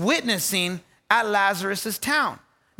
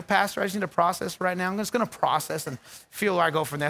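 lightly voiced congregant, quick and lower; understated mimicry of someone stalling; mimicked church member; 5 semitones lower, 4 dB quieter, faster than usual. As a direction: rattle it off low, imitating a churchgoer.

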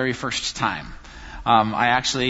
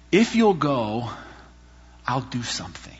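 God whispering; 3 semitones lower, 3 dB quieter than usual. Retold or imitated. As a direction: breathe God's promise softly. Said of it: "God was sort of whispering it".

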